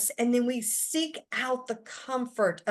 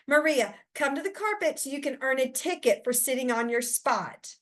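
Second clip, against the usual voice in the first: stern teacher. Acted. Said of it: "teachers who ignore the emotion and focus only".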